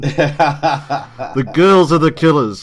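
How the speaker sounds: a failed whisper, far too loud; Homer Simpson whisper. Retold or imitated. Mulder warning Scully, bad loud stage whisper. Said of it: "like Homer Simpson when he's trying to whisper".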